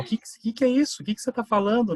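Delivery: high, loud, baffled granny voice; puzzled grandmother. Retold or imitated. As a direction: play the confused grandma asking what that word means. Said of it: "Daí minha avó". (avó confusa imitada, voz aguda e alta)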